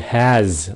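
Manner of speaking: "has" ending in a voiced z; Z sound. Shown as a demonstration. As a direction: let "has" buzz into a Z. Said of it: "âm Z".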